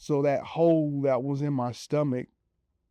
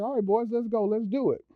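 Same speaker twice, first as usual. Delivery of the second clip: pumped up; 8 semitones higher than usual. Retold or imitated. Pumped up before stairs.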